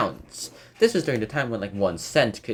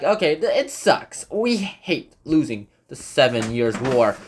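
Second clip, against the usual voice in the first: mock French complaint; 3 semitones higher than usual. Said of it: "the French were all like".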